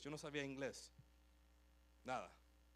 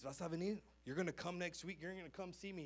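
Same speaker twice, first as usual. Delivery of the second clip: put-on happy excited boy; 4 semitones higher than usual. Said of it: "Y yo todo feliz".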